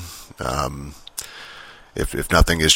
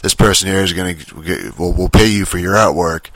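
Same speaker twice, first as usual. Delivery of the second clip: mock yell, raised and insistent; retold mic screaming. Imitating the streamer calling out to Kiwi Bear mid-stream, mock yelling. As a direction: imitate a streamer hollering for attention. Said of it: "screaming into the mic".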